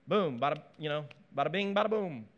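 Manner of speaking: hint of a mock Italian accent. Preacher joking through David's cover-up plan, mock Italian. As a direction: toss it off with a light Italian lilt. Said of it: "I just went Italian on this".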